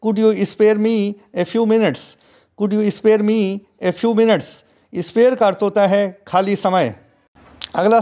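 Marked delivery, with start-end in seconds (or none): 0.1-4.4 very slow, careful model reading; slow model sentence. Shown as a demonstration. Teacher modelling the request slowly for students. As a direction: read it slowly for learners. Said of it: "इसे English में कहेंगे".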